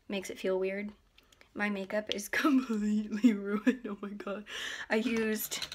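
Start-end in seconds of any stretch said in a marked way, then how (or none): 1.5-4.5 breathy laughing whisper through giggles. Real, not acted. Girl laughing about her ruined makeup, whispering. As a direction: laugh it out under your breath.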